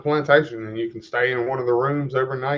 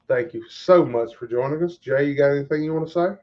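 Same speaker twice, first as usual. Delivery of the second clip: show host outro. Acted.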